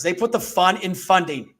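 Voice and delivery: ad slogan read. Acted. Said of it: "I can say that in my sleep".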